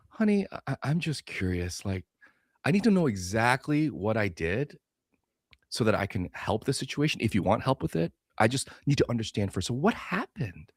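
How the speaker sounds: soft, patient, gently curious voice; calm curious husband. Retold or imitated. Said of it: "you deal with it with curiosity".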